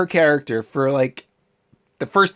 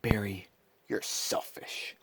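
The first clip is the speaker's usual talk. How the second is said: quoted line; 6 semitones lower, 13 dB quieter, slower than usual. Retold or imitated. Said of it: "somebody would say".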